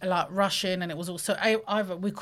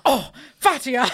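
drawn-out, higher, louder pity; mock pitying sigh; 4 semitones higher, 11 dB louder than usual. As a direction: lean on the name with fond pity. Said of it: "he was like".

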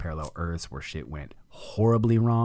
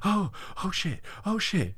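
much higher, gasping "oh shit"; panicked shock. Retold or imitated. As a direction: jolt back in sudden panic. Slamming back into his body.

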